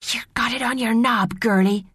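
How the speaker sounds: high-pitched, spiteful mermaid jibe; hissed taunt. A narrator's reading. A mermaid answers Maria's question, hissing a taunt. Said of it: "someone hissed".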